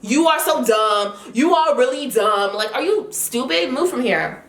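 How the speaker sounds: real anger rising as she retells it; getting heated. Real, not acted. Telling viewers off the unprofessional host, heated. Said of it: "I'm getting heated just thinking about it now".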